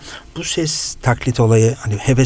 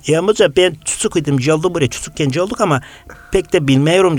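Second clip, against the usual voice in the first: higher, lightly put-on Black Sea accent; 5 semitones higher than usual. Passenger faking a Black Sea accent to the driver. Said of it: "aynı frekansta".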